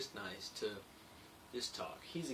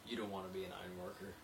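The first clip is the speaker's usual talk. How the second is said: serious advice; 3 semitones lower, 5 dB quieter, faster than usual. Retold or imitated. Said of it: "He's like".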